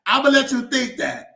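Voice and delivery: poking fun at sister's lashes; teasing laugh. Real, not acted. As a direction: tease her through laughter. Teasing sister about eyelashes.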